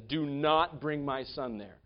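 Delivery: slow, weighted "Do not bring my son there"; emphatic command. Retold or imitated. Abraham forbids his servant to take Isaac back, slow and emphatic. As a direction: press firmly on "Do not", measured and deliberate. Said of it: "He's very emphatic".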